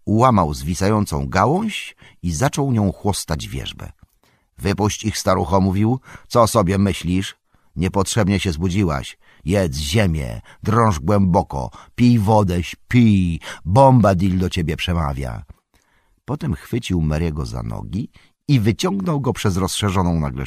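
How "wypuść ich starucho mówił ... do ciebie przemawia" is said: firm, incantatory orders; measured commands, a touch louder towards the end; commanding Tom Bombadil. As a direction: order the old willow about, building in force.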